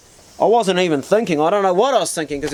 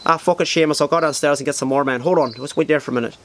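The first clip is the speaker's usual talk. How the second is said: put-on Irish accent. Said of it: "I heard one of the guys say".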